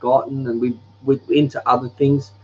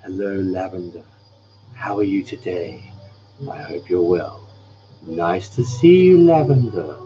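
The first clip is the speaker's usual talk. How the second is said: lightly put-on gentle greeting; a hint of the soft announcer voice; repeating the soft-spoken voice; 4 semitones lower than usual. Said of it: "what did I say?".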